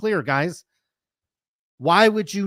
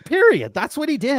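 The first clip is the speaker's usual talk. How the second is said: "Period" thrown out much higher and louder; emphatic outburst; 7 semitones higher, 4 dB louder than usual. Real, not acted. Podcaster slamming his verdict on the steroid thank-you, loud. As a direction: slam the verdict down.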